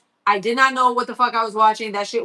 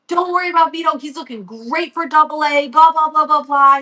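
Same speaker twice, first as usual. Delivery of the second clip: higher-pitched, patter-like reassurance; glib reassuring coach; 5 semitones higher, 4 dB louder than usual. Retold or imitated. Coach telling mom her son will make it, glib. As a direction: imitate a coach brushing off a parent's worry. Imitating coach brushing off worry.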